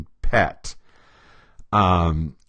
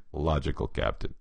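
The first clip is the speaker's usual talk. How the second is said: deadpan Spock; 6 semitones lower, 9 dB quieter than usual. Retold or imitated. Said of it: "Spock just looks at him and says".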